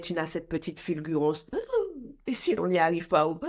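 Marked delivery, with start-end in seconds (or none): 1.5-2.2 a sharp high gasp. Real, not acted. Worried speaker gasps before asking her question. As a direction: suck in air, startled.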